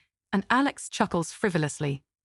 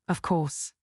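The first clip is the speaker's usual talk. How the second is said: curt retort; 3 semitones lower, 3 dB quieter than usual. A narrator's reading. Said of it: "mother-in-law retorts".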